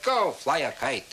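slow, drawn-out mock brush-off; dismissive retort. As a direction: act out an uncle slowly dismissing a beggar. Uncle curtly refuses Franklin's plea.

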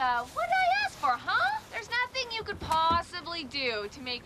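defiant taunt. Acted. Kat daring Jen during a quarrel, defiant taunt.

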